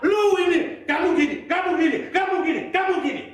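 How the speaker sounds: jab each kamu gini like an angry partner; a mock spouse's angry nagging; angry scolding. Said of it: "Tapi ketika marah".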